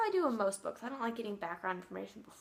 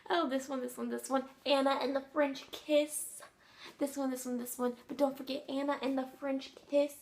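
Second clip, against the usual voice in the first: gushing, slowing to savour "Anna and the French Kiss"; bubbling over, each "this one" tumbling out; giddy fan rattling off her haul; overexcited; 4 semitones higher, 4 dB louder than usual. Real, not acted. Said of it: "I'm a little overexcited".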